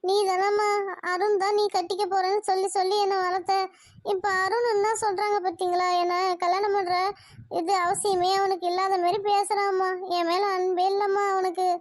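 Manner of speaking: mildly whining, hurt protest to mother; understated weepy grievance; tearful complaint. Acted. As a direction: complain as if crying. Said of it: "நீ எதுக்கு அழுகுற?".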